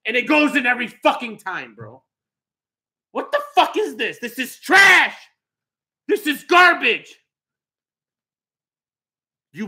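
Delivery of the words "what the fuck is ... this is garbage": raging gamer. Real, not acted. Raging at the game.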